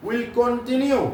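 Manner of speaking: very slow, word by word for students to write; slow dictation. Shown as a demonstration. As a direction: spell it out slowly like dictation. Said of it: "এই লাইনটারে একটু উড়া মুখস্থ করে রাখ". (ধীরে ধীরে শ্রুতলিপির মতো)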